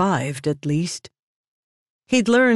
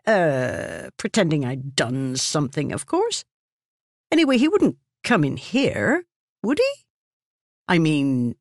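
nervous stammering. Acted. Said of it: "the man stammered".

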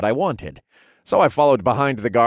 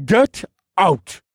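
louder, much higher shout; angry order; 10 semitones higher, 6 dB louder than usual. Acted. Duke ordering visitors out, shouting. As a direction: bark them out of the room.

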